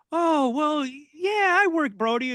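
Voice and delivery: imitating Bull. Bull answering the fan question.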